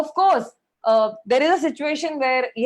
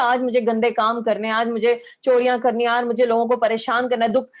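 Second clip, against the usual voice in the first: quick, even run-through of imagined thoughts; mock recitation; 3 semitones lower, faster than usual. Preacher voices a thief's supposed morning thoughts, quick mock recitation. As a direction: rattle it off lightly, like reciting a to-do list.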